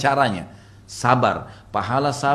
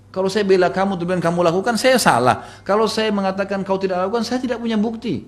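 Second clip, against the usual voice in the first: high, raised-voice helplessness; agitated excuse; 8 semitones higher, 4 dB louder than usual. Retold or imitated. Father explaining he cannot defend his daughter, agitated. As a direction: argue it out at a high pitch.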